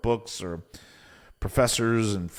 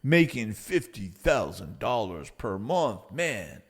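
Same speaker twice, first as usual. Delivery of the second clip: sceptic's mocking stand-in voice; naysayer. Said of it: "people will say things".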